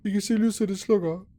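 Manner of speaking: alarmed, tell the viewers; viewers, the lights are going out, startled. Real, not acted. Gasps as lights go out.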